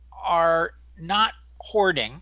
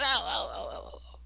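mock "oh" moans, higher, trailing off softly; imitated reaction moans; 5 semitones higher, 5 dB quieter than usual. Storyteller voicing the woman coughed on in bed, mock moaning. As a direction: act out her string of little moans, dying away. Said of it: "and she goes".

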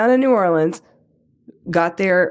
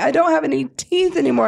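imitating husband crying; 7 semitones higher than usual. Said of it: "And he's crying".

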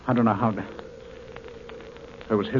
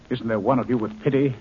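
desperate plea; 5 semitones higher, 5 dB louder than usual. Acted. Pleading with the alien captors.

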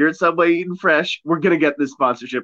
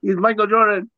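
put-on Latino accent; 8 semitones higher than usual. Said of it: "Why they gotta have a Latino accent".

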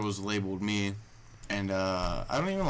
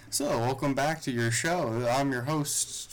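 game show host; 4 semitones higher, slower than usual. Retold or imitated. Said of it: "I liked opening up Skunk Bucker".

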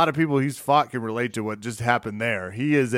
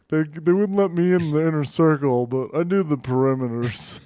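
wannabe cop voice; 3 semitones higher than usual. Retold or imitated. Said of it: "the cop in the background's like".

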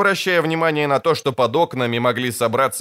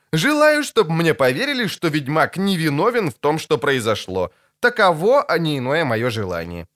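quoted declaration; 2 semitones higher than usual. Acted. Bard quoting his dictated wish to the others, lightly declaimed quotation. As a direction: recite it as someone else's wish. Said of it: "цитирую".

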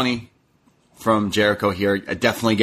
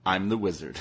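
mock wizard boast; 2 semitones lower, 8 dB quieter than usual. Punchline of Jericho quote.

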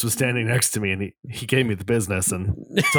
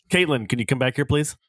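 manager voice; 2 semitones higher than usual. Pretend. Imagined Bachelor summoning Caitlin, manager voice. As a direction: call an employee back in, pitch lifting on please. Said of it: "I would use my manager voice".

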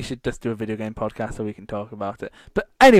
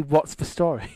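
mock Scottish phrase; 2 semitones higher than usual. Shown as a demonstration. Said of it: "Scotland don't say".

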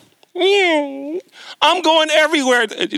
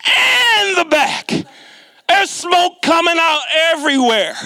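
mock panic; 5 semitones higher than usual. Telling friends his car smokes, in a hammed-up panicked squeal. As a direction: voice jumps up high in mock alarm. Car starts smoking on hill.

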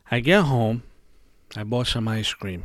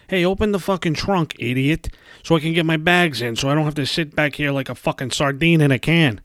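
a hint of a rude passenger, louder and higher; mock angry passenger; 4 semitones higher, 5 dB louder than usual. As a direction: bark it like an impatient passenger. Acted demand to driver.

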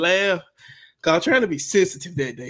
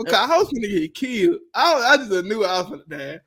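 ordinary talk

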